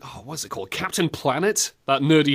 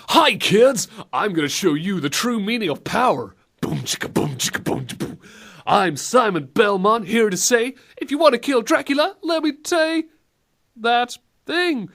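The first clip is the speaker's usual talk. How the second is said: try-hard cool rapper; 5 semitones higher than usual. Pretend. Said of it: "trying to look cool and hip".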